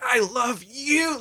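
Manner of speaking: imitating a high cracking yell, slow; mock scream. Grandma shouting love back at her grandson, imitated high cracking yell. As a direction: belt it out high and stretched, like a grandma. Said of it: "Like, she, like, screamed it".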